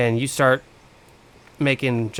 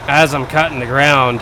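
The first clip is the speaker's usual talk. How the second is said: loud raised voice over a roaring engine; shouting over machinery; 4 dB louder than usual. Real, not acted. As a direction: call it out loud over the motor. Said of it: "I'll stop yelling over the engine".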